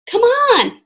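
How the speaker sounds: high, loud call from above. A narrator's reading. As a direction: call down to someone to follow. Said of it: "Annie called from the top".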